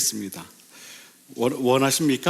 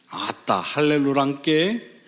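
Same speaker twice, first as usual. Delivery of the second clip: slow Jeolla-style Korean dialect; lightly put-on Jeolla dialect exclamation; regional dialect; slower than usual. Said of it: "또 어느 쪽에서는".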